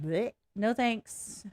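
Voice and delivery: slow, turned-up-nose bleh; mock disgusted no thanks; dismissive disgust. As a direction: brush them off with disgust, drawn out. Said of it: "And I'm like".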